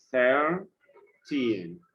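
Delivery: put-on "Thirteen" split, long THIR then falling teen; first-syllable stress. Shown as a demonstration. Teacher repeating the example, "Thirteen" in two drawn-out parts. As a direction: stretch THIR in "Thirteen", pause before teen. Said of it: "stress will be in the first syllable".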